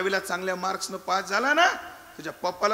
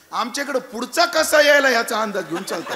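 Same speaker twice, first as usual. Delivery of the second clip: louder, laughing through the answer; laughing punchline; 3 semitones higher, 8 dB louder than usual. Acted. Storyteller laughing while giving the Indian boy's answer. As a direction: deliver the joke half-laughing.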